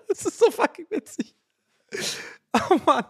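high, laughing through the words; can't stop laughing. Real, not acted. Host laughs at his Simpsons story.

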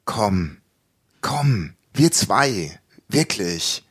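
low, slightly pleading retold appeal; coaxing. Man coaxing his partner to make up, low and intimate. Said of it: "er dann so".

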